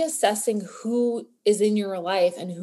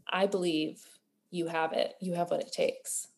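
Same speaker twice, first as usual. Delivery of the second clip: low, hushed and heartfelt reassurance; sincere encouragement; 4 semitones lower, 9 dB quieter than usual. Real, not acted. Host to listeners who need courage, soft and sincere. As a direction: reassure them softly, in a lower voice.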